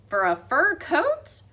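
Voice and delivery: high, slow surprised call; curious janitor. A narrator's reading. Aldo spots the blue ribbon, surprised. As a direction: spot something and lean in.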